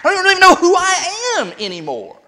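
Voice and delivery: high-pitched, rushed, stammering distress; acted-out anguish, voice lifted high; retold weeping. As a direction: imitate a distraught woman without real sobs. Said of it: "she would weep".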